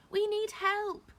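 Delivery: very high, loud, slow cry; desperate call. A narrator's reading. Chaya still struggling with captors, desperate call. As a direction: call out for help.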